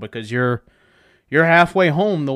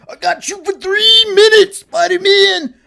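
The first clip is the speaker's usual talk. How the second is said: high, loud hammed-up announcer voice; mock podcaster; 8 dB louder than usual. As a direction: ham up a cheesy podcast host. Mock podcaster intro line.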